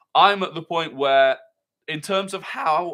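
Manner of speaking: voice breaking and cracking up high mid-phrase. Speaker discussing Arteta's centre-back choices, with voice cracking. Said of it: "sorry, voice crack".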